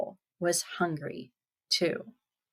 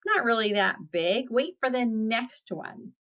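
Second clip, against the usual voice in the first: nervous goat; 4 semitones higher than usual. Retold or imitated.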